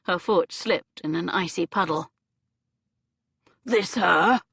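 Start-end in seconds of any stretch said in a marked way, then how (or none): 3.6-4.4 rasped question. Acted. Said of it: "the leader rasped".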